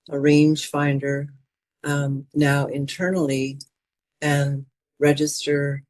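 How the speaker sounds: calm, even meditation voice with long pauses; guided meditation. Acted. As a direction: guide them inward, phrase by unhurried phrase. Leads a mindfulness meditation.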